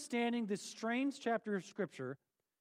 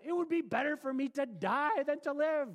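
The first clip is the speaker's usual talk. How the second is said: dramatic reading; 6 semitones higher, 4 dB louder than usual. Acted. Voices Jonah's despair.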